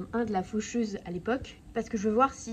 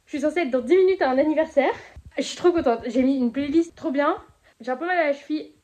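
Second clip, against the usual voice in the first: excited; 3 semitones higher, 6 dB louder than usual. Real, not acted. Still buzzing after her run.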